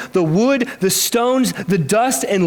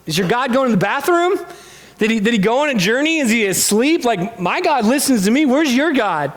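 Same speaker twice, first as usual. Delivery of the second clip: teasing; 3 semitones higher than usual. Retold or imitated. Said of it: "messing with them".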